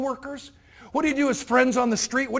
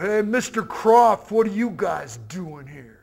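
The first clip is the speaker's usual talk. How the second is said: slow, drawn-out call across a noisy bar; yelling across the dance floor; 3 semitones lower, 3 dB louder, slower than usual. Retold or imitated. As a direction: cup your hands and call out slowly over the music. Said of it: "yells across the dance floor".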